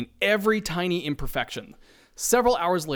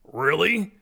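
disbelief; 2 semitones higher than usual. Acted. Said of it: "Ed questions in disbelief".

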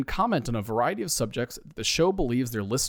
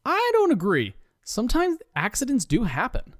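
arguing; 10 semitones higher than usual. Acted. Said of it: "argues Steve".

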